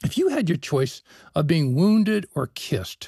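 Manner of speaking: normal talking voice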